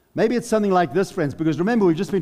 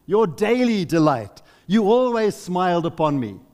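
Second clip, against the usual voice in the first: impassioned plea to the Father; Jesus crying out; 2 semitones higher than usual. Acted. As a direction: plead as the forsaken Son. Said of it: "as he cries out".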